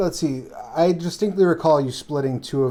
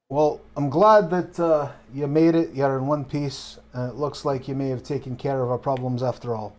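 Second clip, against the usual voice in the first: relieved barkeep; 3 semitones higher than usual. Acted. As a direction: greet him as a barkeep, easing back down. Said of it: "makes his way over to Casimir".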